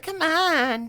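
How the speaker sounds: put-on eager girlfriend. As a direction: coax him like an eager girlfriend. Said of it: "She's like".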